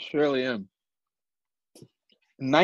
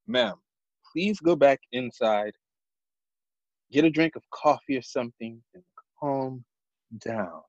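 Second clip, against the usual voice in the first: lightly voiced official shutting a woman down; character voice. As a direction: calmly order a civilian to back off. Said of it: "Fucking character voice and everything".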